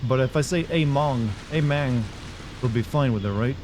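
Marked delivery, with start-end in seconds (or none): 0.7-2.0 lightly put-on Cuban slang accent; mock Cuban accent. Player wondering what slang would pass, mock Cuban accent. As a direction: try out "hey man" in a hint of Cuban accent. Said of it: "that might be a Cuban thing".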